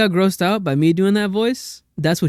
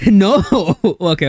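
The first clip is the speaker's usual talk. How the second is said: laughing; 6 dB louder than usual. Real, not acted. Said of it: "Can you try to do the voice".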